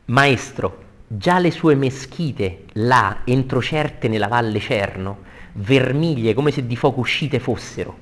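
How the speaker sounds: slow, deliberate poetry reading; verse recitation. Acted. Teacher rereading Dante to the class, declaimed verse. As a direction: declaim the tercet with measured weight.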